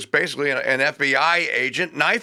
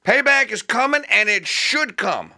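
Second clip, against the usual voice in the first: ominous warning; 5 semitones higher than usual. Real, not acted.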